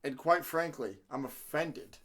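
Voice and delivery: low, measured, wounded dignity; solemnly aggrieved, with weighty pauses; mock offended. Host scolding Kobe for making fun of him, mock offended.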